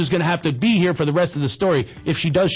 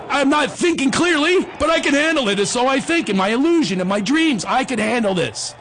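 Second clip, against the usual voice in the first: put-on squeaky kid voice; 7 semitones higher than usual. Kid reassures himself.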